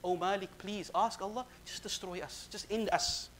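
hushed, understated plea; pleading. Retold or imitated. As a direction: beg softly, with breaks between phrases. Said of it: "They can only now plead and beg".

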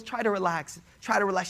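soft, soothing reassurance; calming mother. Retold or imitated. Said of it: "She's trying to calm her down".

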